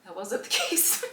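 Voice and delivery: real laugh breaking into the words; laughing about it. Real, not acted. Admitting their support didn't last, laughing through it. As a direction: let a laugh interrupt the sentence. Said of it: "I can laugh about it now".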